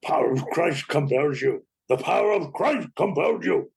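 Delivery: lightly voiced stern exorcist priest; Max von Sydow. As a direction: intone it like an exorcist, only a hint of the voice. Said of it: "obsessed with Max von Sydow".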